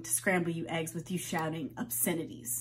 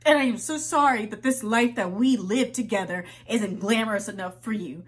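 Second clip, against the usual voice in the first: louder, biting and sarcastic; bitter sarcastic apology; 3 dB louder than usual. Acted. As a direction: spit out a bitter sorry.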